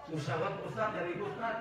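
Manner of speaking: high pleading complaint; mengeluh ke ustaz. Retold or imitated. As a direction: whine it like a broke congregant. Jamaah mengeluh soal duit. (keluhan jamaah dengan suara tinggi)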